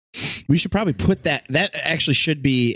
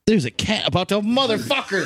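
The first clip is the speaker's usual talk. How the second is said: laughing alarm; 7 semitones higher than usual. Real, not acted. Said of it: "I had to break character".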